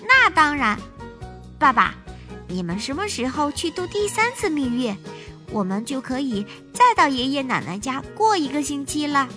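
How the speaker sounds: bouncing with excitement; excited little girl. Acted.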